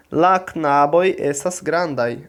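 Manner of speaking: "La knaboj estas grandaj", slow and carefully sounded; pronunciation demo. Shown as a demonstration. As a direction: pronounce "La knaboj estas grandaj" slowly for a class. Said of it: "Vou pronunciar".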